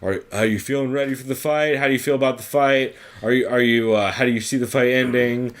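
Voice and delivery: dull, droning reporter voice; mock a bored interviewer reeling off stock questions; hint of a droning interviewer; monotonous reporter questions. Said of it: "that same, like, monotonous".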